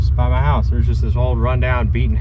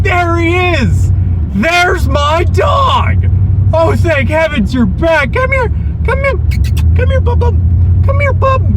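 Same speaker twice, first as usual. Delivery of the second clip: high, excited calling to a lost dog; overjoyed fake-owner shout, much higher. Pretending to the cop the stray is his dog, high excited calling. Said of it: "and I'm like".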